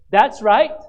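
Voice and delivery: loud affirming shout from the pews; call-out. Retold or imitated. Churchgoer answering the sermon, loud call. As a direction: shout it back in agreement.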